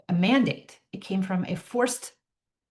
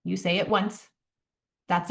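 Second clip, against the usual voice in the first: calm, slow validation. Shown as a demonstration. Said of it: "make the distinction out loud".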